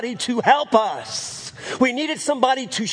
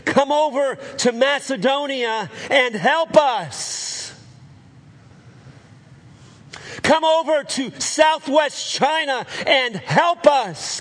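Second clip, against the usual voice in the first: pleading call; 4 semitones higher than usual. Acted. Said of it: "appealing to him and saying".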